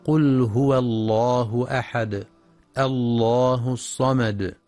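careful, elongated verse reading; Quran recitation. Shown as a demonstration. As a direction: recite with measured tajweed, pausing after each verse. Teacher recites the sura's opening.

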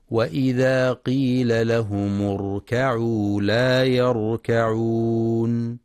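slow chant, the last word stretched very long; Quran recitation. Shown as a demonstration. Teacher chanting the verse for tajweed students, very slow. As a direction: chant it, holding يركعون long. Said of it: "ينتبه القارئ لتحقيق ضم الميم".

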